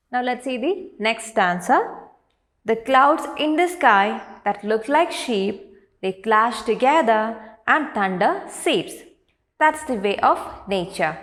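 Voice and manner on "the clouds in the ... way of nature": poem recitation. Acted. Teacher reading a nature poem to grade three, poem recitation. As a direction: recite verse line by line, pausing after each. Reads poem stanza aloud.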